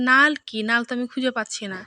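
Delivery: loud puzzled asking; bewildered, calling back what is this; confused question. Retold or imitated. Confused bride asks about word. (বিভ্রান্ত হয়ে জোরে প্রশ্ন)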